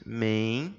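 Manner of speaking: MEN... TI... RAS, long pauses between syllables; separação silábica. Shown as a demonstration. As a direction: say "Mentiras" one syllable at a time, low. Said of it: "Vamos pra palavra mentiras". ("Mentiras" sílaba por sílaba, men - ti - ras)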